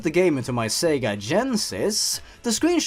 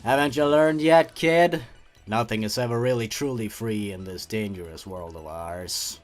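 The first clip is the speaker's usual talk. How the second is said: mock ominous aside; 4 semitones lower than usual. Sarcastic aside to story narrator.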